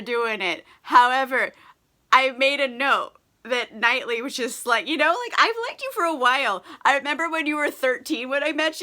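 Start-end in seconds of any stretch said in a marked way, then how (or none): 4.9-8.8 eager confession. Retold or imitated. Knightley confessing.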